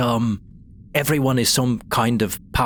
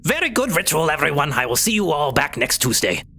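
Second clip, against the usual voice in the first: cheerful high voice; 3 semitones higher than usual. Acted. Kobold chief, high.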